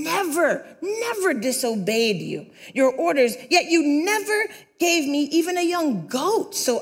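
indignant, rising to a shouted complaint; resentful older son. Acted. Older son shouting his resentment at his father. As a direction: let the grievance build until it bursts out.

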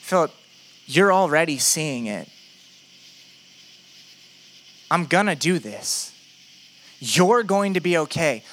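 steady, deliberate reassurance; Jesus. Acted. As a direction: reassure a doubter, weighting each promise. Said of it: "Jesus says".

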